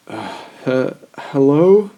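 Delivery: loud high call into the dark; tipsy calling out. A narrator's reading. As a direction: call out uncertainly down the stairs. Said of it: "I tipsily called".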